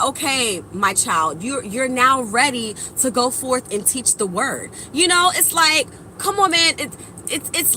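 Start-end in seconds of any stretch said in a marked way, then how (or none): 0.0-4.7 lightly voiced solemn elder; a hint of a gentle deity; wise elder voice. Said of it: "the universe said".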